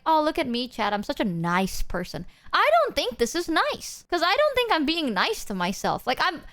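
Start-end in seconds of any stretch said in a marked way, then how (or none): 0.1-2.2 lightly smug self-praise; a hint of a smug show-off; smug mock. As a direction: preen a little, mockingly. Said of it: "I don't wanna be like".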